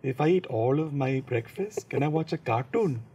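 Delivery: put-on little kid's light Indian accent; a boy asking his grandparents in an Indian accent; childhood Indian accent. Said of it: "You got an accent!".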